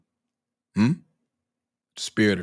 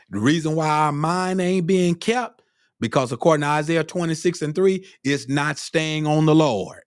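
raised-pitch sermon delivery; fervent preaching; 6 semitones higher, 3 dB louder than usual. Real, not acted. Preacher explains why minds aren't kept, fervent preaching. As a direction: drive the point home high, stretching the last words.

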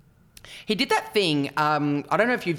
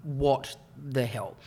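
quiet, slow, baffled mutter; stunned and quiet; mild mock disbelief; 3 semitones lower, 6 dB quieter, much slower than usual. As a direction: Lewis caught off guard, hushed. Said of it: "And Lewis was like".

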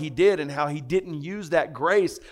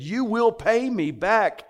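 raised, slowed, forceful demand; mock angry demand; 6 semitones higher, slower than usual. Servant choking his debtor demands repayment, raised and forceful. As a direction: lean on every word like a creditor.

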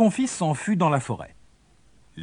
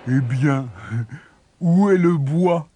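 mocking; 3 dB louder than usual. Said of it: "d'un air goguenard".

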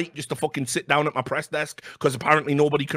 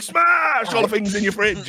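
mock rage shout; 6 semitones higher, slower than usual. Hammed-up threat at the journalist, slow shout. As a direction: bellow it slowly like a madman. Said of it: "I was, like, coming at him like that".

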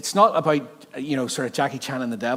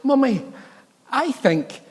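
imitating the girls; 11 semitones higher, slower than usual. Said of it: "the girls were going".

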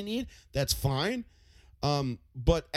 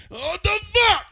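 incredulous yell; 9 dB louder, slower than usual. Retold or imitated.

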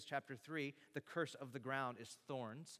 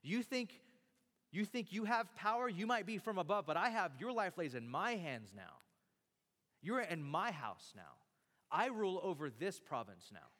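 acted-out bragging with menace; forceful, punched-out retold threats; boastful. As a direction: imitate a governor throwing his weight around.

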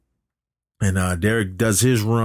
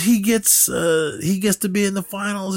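much higher, strained mock outburst; imitating a furious skater, pitched way up; mock angry yell; 11 semitones higher than usual. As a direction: squeal it like a sore loser. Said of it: "he's yelling about Derek".

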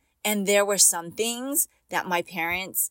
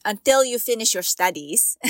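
put-on light Filipino accent on the quote; a hint of a Filipino dad's accent; 2 semitones higher, 3 dB louder than usual. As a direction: mimic her dad's Filipino accent, firmly. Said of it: "let me say it in his accent".

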